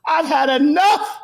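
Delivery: fed up, throwing it out to the room; exasperated shout. Real, not acted. Venting to his viewers, a slow fed-up shout.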